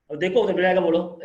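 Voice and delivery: dismissive candidate. Retold or imitated. Teacher mimics a rude candidate, mildly dismissive. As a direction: wave the question away, a bit loud. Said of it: "ऐसे नहीं करना".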